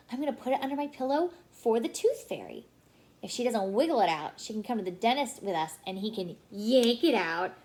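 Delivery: quick, lightly voiced eager little girl; eager little sister. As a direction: rush it out like an excited little sister.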